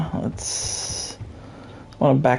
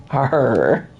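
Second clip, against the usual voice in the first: playful pirate arr; pirate growl; 3 semitones lower than usual. Pretend. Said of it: "making yourself sound like a pirate".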